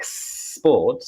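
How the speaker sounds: "sport" begun with a long hissed S; snake-hiss S in sport. Shown as a demonstration. Teacher drilling sport from a snake hiss, stretched S. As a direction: hiss the S slowly, then finish "sport". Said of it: "we have to be snakes first".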